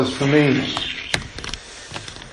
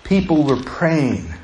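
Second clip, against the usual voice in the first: quiet and slow; 5 dB quieter, slower than usual. Shown as a demonstration. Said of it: "Do you hear me?".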